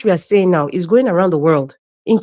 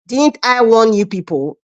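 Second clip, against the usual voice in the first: slow, mock-accented "didn't I warn you people", pitched up; lightly mimicking his accent, slow and high; 4 semitones higher than usual. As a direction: imitate his accent, drawn out and a bit higher. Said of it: "in his accent?".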